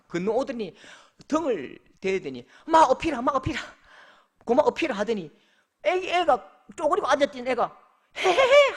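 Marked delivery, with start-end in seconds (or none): 2.7-5.0 louder, higher dialect "어피라" offer; dialect dad. Retold or imitated. Father offers his back to his daughter, louder dialect call. 8.2-8.7 high, loud giggle; a delighted little girl's giggle; giggling child. Retold or imitated. Sulking daughter giggles, won over, high and loud.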